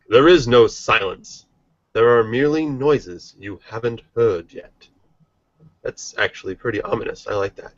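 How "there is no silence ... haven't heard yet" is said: announcer voice. Acted. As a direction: hype it up like a ring announcer. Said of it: "I'm going to do it in an announcer voice".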